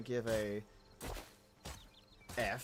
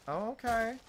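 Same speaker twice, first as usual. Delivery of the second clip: lightly voiced teasing parent; a hint of a scolding mother; mock parent; 9 semitones higher than usual. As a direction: tease like a parent. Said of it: "they're like".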